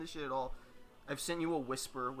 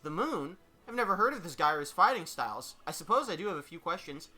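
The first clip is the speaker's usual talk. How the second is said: slightly raised, quick character voice; mildly uneasy but keeping composure; nervous, feigning confidence; 3 semitones higher, 4 dB louder, faster than usual. Acted. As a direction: cover a touch of nerves with confidence. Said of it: "looks a bit nervous, but tries to keep up".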